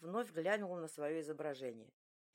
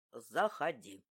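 deep, rumbling giant's voice; a big man booming an invitation; low boom; 8 semitones lower, much slower than usual. A narrator's reading. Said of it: "пробасил".

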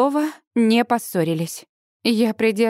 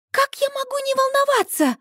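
much higher, shrieking in panic; wailing cry. A narrator's reading. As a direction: wail it out in distress. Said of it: "вопит Сьюзи". (вопит, очень высоко)

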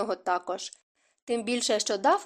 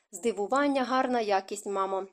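calmer tone. Acted. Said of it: "вже спокійнішим тоном".

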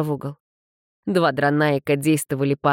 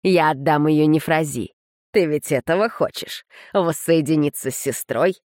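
asylum patient. Acted. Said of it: "Безумный смех Тита".

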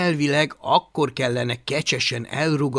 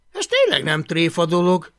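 astonished, raised-pitch remark; stunned; 4 semitones higher, 6 dB louder than usual. A narrator's reading. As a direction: take it in with dismay. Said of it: "jegyezte meg döbbenten".

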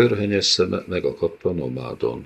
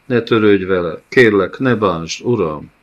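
louder, urgent begging; desperate plea; 3 semitones higher, 6 dB louder than usual. Acted. Loew begging the nomad to spare the child, urgently. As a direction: beg him not to hurt the child.

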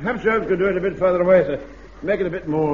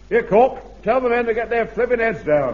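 calling out; 7 semitones higher than usual. Acted. Sergeant relays order in play.

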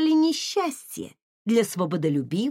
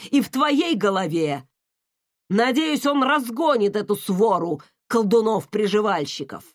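angry father; 4 dB louder than usual. Acted. Father scolds defiant daughter.

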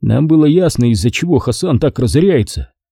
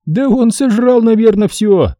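a raised voice teasing a greedy friend; teasing jab; 11 semitones higher than usual. A narrator's reading. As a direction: needle him with a grin. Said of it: "подколол Хасан".

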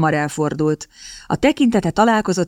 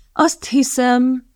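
slow, deliberate and higher; measured, slow start; 7 semitones higher, much slower than usual. A narrator's reading. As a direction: weigh each word slowly before answering. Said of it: "kezdte megfontolta a Radcliffe".

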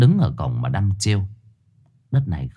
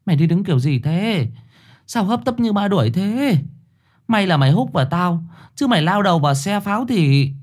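scolding mother; 9 semitones higher than usual. A narrator's reading. Mother scolding her son.

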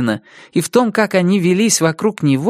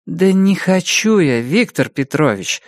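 tired. Acted. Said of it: "устало сказала я".

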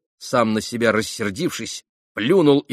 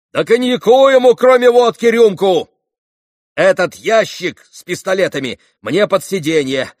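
громкие распоряжения; 8 semitones higher, 8 dB louder than usual. Acted. Митя шумно распоряжается в лавке.

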